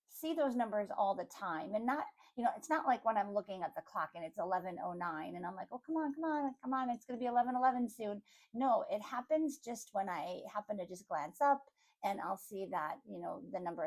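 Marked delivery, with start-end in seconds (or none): 5.7-8.2 higher, hurried pretend pleading; mock impatient urging. Playfully willing the clock to reach eleven eleven, mock impatient. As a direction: egg the clock on in a quick, higher voice.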